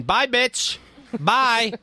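dramatic, drawn-out kiss-off. Retold or imitated. Host mimicking a listener quitting the show, dramatic. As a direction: toss it off with mock drama. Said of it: "you did it dramatically, too".

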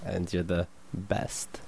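sheepish mumble. Real, not acted. Sheepish compliment after joke.

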